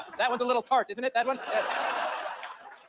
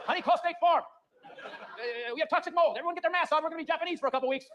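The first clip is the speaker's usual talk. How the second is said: panicked dad; 7 semitones higher than usual. Acted.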